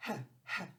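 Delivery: "H" as a breathy huh; H sound. Shown as a demonstration. Teacher sounding out H for kids. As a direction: breathe out a short h. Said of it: "The H says H".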